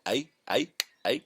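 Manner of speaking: high, dopey repeated hey; idiot's hey hey. Shown as a demonstration. Showing the idiot character's catchphrase, high dopey heys. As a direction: bleat it like the village idiot. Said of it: "A lot of that".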